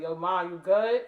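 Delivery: son checking in. Retold or imitated. Son checking on his tired mom, casually. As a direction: call it out like a teen checking on mom. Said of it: "he would come and be like".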